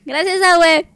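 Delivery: laughing. Real, not acted. Mock thanks to grandma, laughing.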